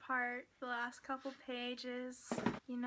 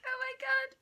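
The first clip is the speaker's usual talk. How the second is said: gasped squeal; 12 semitones higher, 8 dB louder than usual. Retold or imitated.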